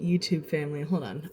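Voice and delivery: catching breath mid-greeting. Real, not acted. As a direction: breathe hard, just up the stairs. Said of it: "I'm a little out of breath".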